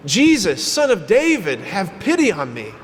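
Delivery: crying out. Acted. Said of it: "cries out".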